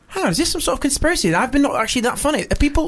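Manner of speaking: high-pitched retold panic; scared, paranoid. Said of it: "I got scared, got paranoid".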